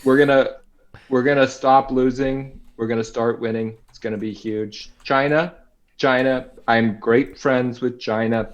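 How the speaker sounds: lightly voiced Trump boasting; a hint of Trump's rally cadence; Trump impression. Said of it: "can do a great impression of him".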